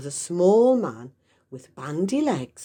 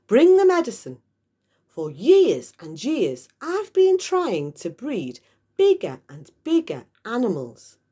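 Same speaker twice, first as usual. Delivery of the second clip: loud, excited rant; eager father; 5 semitones higher, 4 dB louder than usual. Acted. Mister Cranky telling George his breeding plans, loud and eager. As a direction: build it up with eager greed.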